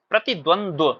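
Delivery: प्रतिद्वंद्व sounded out with "dvand-va" at the end; correct pronunciation. Shown as a demonstration. Teacher models the reading for students, carefully pronounced. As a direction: spell out each cluster of प्रतिद्वंद्व. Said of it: "इस तरीके से पढ़ा जाता है".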